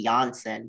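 "Janssen" begun with a Y sound; original German pronunciation. Shown as a demonstration. Guest explaining her surname's origin, "Janssen" with a Y sound. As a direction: say "Janssen" as YAHN-sen. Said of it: "It's supposed to be".

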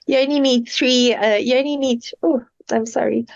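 holding back a sneeze; speaking through an oncoming sneeze; about to sneeze. Real, not acted. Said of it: "I'm going to sneeze".

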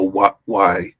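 soft, quiet groaning why; mock exasperated. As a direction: mutter it in self-despair. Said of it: "I stop and I go".

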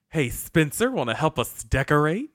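lilting mock call to a coworker; re-enacted breezy invitation. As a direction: act out a casual, singsong request. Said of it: "Just like that".

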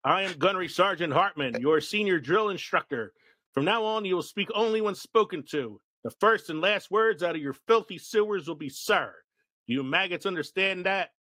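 lightly barked sergeant lines; drill sergeant. Retold or imitated. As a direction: read it like a hint of drill instructor. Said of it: "quote page just for those characters".

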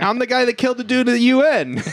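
high, fast, hammed-up outburst; imitating a man eager to be arrested; mock blurted confession. Drunk-seeming man confesses loudly to cops.

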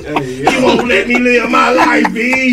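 high, loud playful complaint; mock outburst. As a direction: whine it out in jest. Mock quarrel, cutting in.

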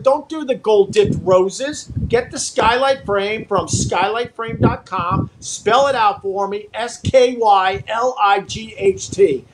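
slow, deliberate sponsor read. Acted. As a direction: sell it like a radio spot, taking your time. Reads the sponsor ad.

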